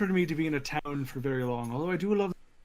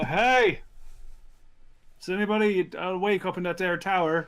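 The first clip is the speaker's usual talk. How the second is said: calling up to tower; 4 semitones higher than usual. Acted. Dwarf hailing the guard tower from the road, calling out. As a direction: call out to a guard far above. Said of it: "who's gonna yell for the guard".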